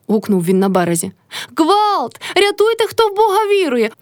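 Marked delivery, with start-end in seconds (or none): 1.6-3.9 very high panicked cry; screaming for help. A narrator's reading. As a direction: wail for help as if drowning. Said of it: "кричала баба".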